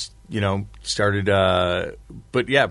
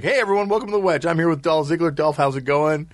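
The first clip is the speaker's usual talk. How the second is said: fast, bright show-host intro, a touch higher; 5 semitones higher than usual. Retold or imitated. Podcast host retelling his rushed intro to Dolph Ziggler, fast host voice. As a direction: rattle off the welcome like a TV host.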